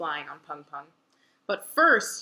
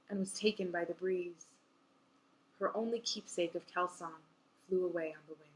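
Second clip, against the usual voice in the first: story reading. A narrator's reading. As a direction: let the last lines of the chapter fade. Reads novel ending aloud.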